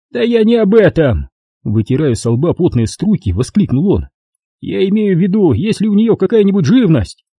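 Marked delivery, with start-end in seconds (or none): 0.1-1.3 high, smug official voice; pompous bureaucrat talking down; notary's voice. A narrator's reading. 4.6-7.2 high, smug official voice; pompous bureaucrat talking down; notary's voice. A narrator's reading.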